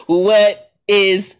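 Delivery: high, stretched, laughing disbelief. Retold or imitated. Players reacting to the anthem, laughing in disbelief. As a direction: crack up while asking what this is. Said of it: "a look on their face like".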